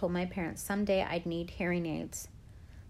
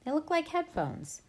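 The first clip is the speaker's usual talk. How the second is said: cheerful; 10 semitones higher than usual. A narrator's reading. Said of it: "trying to be cheerful".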